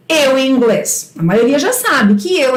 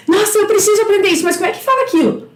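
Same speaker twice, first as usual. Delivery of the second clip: quick, rushed, higher mock panic; anxious student; 5 semitones higher, much faster than usual. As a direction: rattle it off like a flustered learner. Aluna ansiosa imitada pela professora. (aluna ansiosa imitada, fala apressada)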